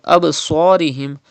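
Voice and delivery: "Absarihim" with a bouncing b; qalqala. Shown as a demonstration. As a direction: bounce the b, then heavy s in "Absarihim". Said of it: "rebounce the sound".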